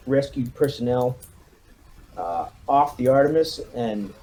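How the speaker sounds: brief the troops like a hard-nosed CO; commanding officer briefing. Acted. Commander briefing his marines before the rescue mission, lightly rousing.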